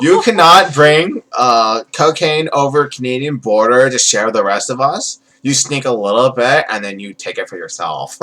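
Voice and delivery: lightly voiced Valley Girl scolding; comic promo with a hint of Valley Girl; Iron Sheik as Valley Girl. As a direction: accuse like a mock Valley Girl wrestler. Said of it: "I'm either doing Iron Sheik as a Valley Girl".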